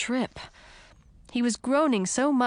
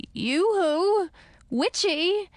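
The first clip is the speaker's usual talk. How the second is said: calling out; 11 semitones higher, much slower than usual. A narrator's reading. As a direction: call out teasingly. Calling out high, far timbre.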